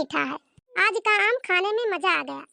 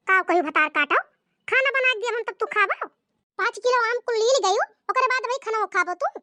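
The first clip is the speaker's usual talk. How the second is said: mother-in-law scolding, a touch higher; 4 semitones higher than usual. Acted. Mother-in-law telling the bride she can't stay, scolding. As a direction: berate the greedy bride.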